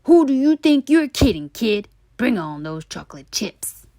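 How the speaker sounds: loud, fast sneering; mock the kid; taunting tooth.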